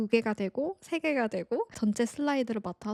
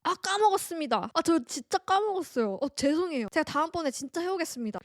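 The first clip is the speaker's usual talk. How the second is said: higher, brisk imitation of a confident new hire; bold, unabashed; 6 semitones higher than usual. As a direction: own up to it boldly in a raised, hearty voice. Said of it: "너무 당당하고 큰 목소리로". (당당하고 우렁차게 흉내 내는 신입사원 목소리)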